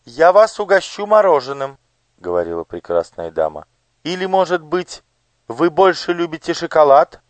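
high, bright-voiced curious lady; noble lady. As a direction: voice the gracious lady on horseback. Lady tempting children. (знатная дама, высоким голосом)

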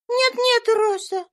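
put-on high, imperious little girl; a little girl commanding the maid to stop. A narrator's reading. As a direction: order her to stop at once. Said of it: "вскричала Ева повелительно".

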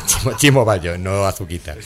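ordinary delivery

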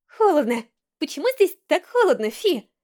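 cold, snotty shivering voice; shivering and sniffling. A narrator's reading. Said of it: "Дрожа от холода и хлюпая носом".

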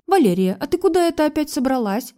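bossy call, rising high on the question. A narrator's reading. Mother-in-law calls after the daughter-in-law, bossy. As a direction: summon her like a servant. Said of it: "окликнула она меня".

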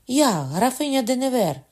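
shouting woman. A narrator's reading. The countess shouts to the queen from the corridor. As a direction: call out desperately through the door.

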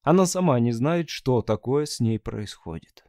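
plain reading voice

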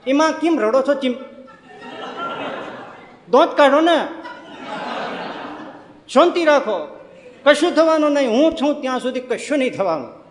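put-on old man shouting to calm frightened passengers, laughing; confident old uncle. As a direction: boom with cheerful certainty over the storm. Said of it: "ચરોતરી કાકા બેઠા".

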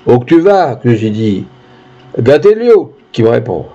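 a hint of rustic storyteller, quotes lifted in pitch; lightly voiced peasant witness. Peasant recounts the walk to the judge, lightly rustic telling. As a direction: spin the village tale with sing-song repeats. Peasant retells events and exchanges.

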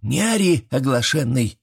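put-on high old woman's scold; granny scolding. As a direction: shut the noisy boy up. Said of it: "раздался знакомый голос".

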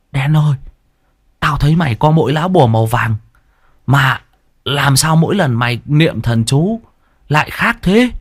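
put-on squeaky whiny boy. A narrator's reading. Sidekick complaining about chewed leaves, high whiny voice. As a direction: gripe like a spoiled kid. Tý asks.

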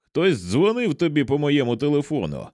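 a touch of affable friendliness in narrated dialogue; good-natured. A narrator's reading. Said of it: "сказав Роулі добродушним голосом". (злегка добродушно)

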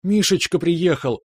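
high, joyful call from the next room; jubilant cry. A narrator's reading. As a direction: mom shouting with delight, pitched high. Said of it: "ворвалось ликующее". (мама радостно кричит, голос высокий)

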